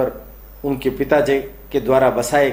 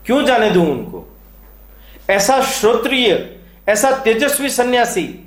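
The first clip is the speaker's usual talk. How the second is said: lightly acted fervent praise, pitched up; fervent admiration; 6 semitones higher than usual. Father defending the young ascetic to his son, mildly fervent. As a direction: speak up for him with a touch of fervour.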